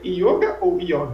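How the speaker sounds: "yoga ou yoga", closed o first, open o second; yoga two ways. Acted. People asking which is right, "yoga" with two contrasted vowels. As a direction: set closed "yôga" against open "yóga". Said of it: "as pessoas perguntam".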